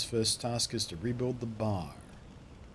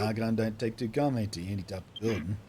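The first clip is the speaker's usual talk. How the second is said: put-on rustic voice, dismissive; louder burst of gruff dismissal in character; hostile townsperson; 5 dB louder than usual. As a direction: send the outsider packing.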